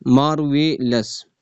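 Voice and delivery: "मार्वेलस" measured out as mar, ve, lous; syllable by syllable. Shown as a demonstration. Teacher rechecking the syllable count, "मार्वेलस" syllable by syllable. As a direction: say "मार्वेलस" in three distinct beats. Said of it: "three syllable है".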